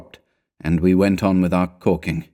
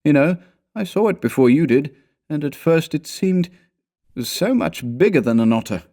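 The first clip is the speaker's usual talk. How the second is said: higher-pitched voice, halting and unsure; uneasy companion; 8 semitones higher than usual. A narrator's reading. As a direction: falter into an anxious question.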